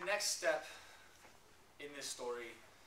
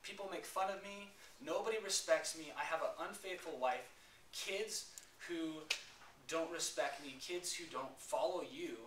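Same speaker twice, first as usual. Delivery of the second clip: high, raised lament to God; anguished complaint; 5 semitones higher than usual. Retold or imitated. A betrayed husband complaining to God, high and raised. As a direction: pour out the hurt, voice lifted.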